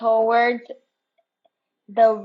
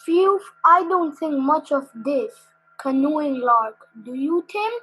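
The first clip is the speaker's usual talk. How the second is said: higher, fed-up grumble; grumbling; 5 semitones higher than usual. Acted. Biscuit moaning to Tim mid-race, fed-up. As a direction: puff and moan about the paddling.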